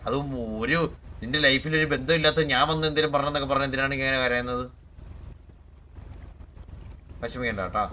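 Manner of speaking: soft, gentle reassurance to a crying friend; calm her down softly; comforting. Real, not acted. (കരയുന്ന കൂട്ടുകാരിയെ സമാധാനിപ്പിക്കുന്ന മൃദുവായ സ്വരം)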